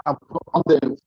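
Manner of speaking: distorted phone line; crackly broken-up connection; fuzz distortion. Real, not acted. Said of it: "your voice is distorting".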